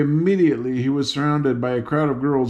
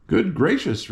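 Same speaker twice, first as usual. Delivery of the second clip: surprised; 5 semitones higher than usual. Acted. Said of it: "the surprised guardian".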